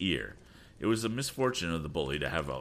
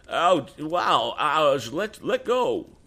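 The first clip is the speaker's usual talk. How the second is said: much higher, loud, slow pained pleading; lusty howl of pain; 10 semitones higher, 8 dB louder, much slower than usual. A narrator's reading. Sam with his ear twisted, howling and pleading. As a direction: howl and beg to be let go. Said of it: "He set up a lusty howl".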